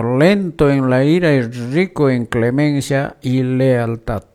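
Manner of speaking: scripture reading. Acted. Host reading Exodus to radio listeners, formal lector reading. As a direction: read the lesson to the congregation.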